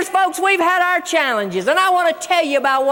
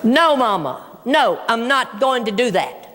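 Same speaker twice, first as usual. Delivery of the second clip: lower-voiced, firm refusal; a son digging his heels in, pitched down; son refusing; 5 semitones lower than usual. Son refusing mom's order on the phone, low retold refusal.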